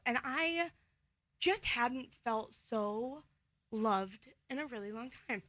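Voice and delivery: halting, choked-up pauses between words; slow down as real feeling catches you; getting emotional. Real, not acted. Daughter moved by her dad's love, getting emotional. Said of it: "Why am I getting so emotional about this?".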